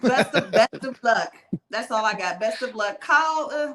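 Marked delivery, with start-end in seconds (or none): 0.0-1.3 laughing. Real, not acted. Laughing farewell wish.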